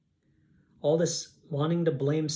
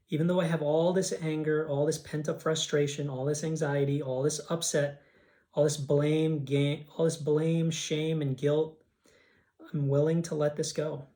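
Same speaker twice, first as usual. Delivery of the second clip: steady, earnest affirmation read; tapping affirmation. Acted. Leading a tapping round, in a firm affirming voice. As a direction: say it like a vow you mean.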